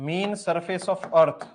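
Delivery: each word drawn out very slowly, x0.2 pace; slow dictation. Shown as a demonstration. Teacher dictating to the class, very slow and deliberate. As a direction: dictate it slowly so students can write. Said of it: "teacher dictates a note to class".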